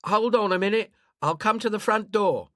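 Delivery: a cautious neighbour asking who's there; suspicious old woman. Acted. Woman answers over intercom.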